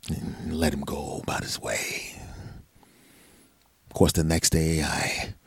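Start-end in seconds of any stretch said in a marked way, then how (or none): 0.1-2.2 soft, hushed narration; whispered aside. Real, not acted. Telling the story, dropping to a whisper. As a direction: drop to a whisper.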